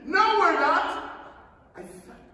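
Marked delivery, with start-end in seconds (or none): 0.1-1.1 high, loud, slow denial; alarmed shout. Acted. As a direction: cry out in alarm. Someone contradicts in alarm.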